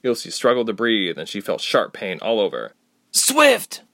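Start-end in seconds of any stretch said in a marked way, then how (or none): 3.1-3.8 high, loud strangled shout; choked out cry. A narrator's reading. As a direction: force the word out while choking. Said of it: "Ilse choked out".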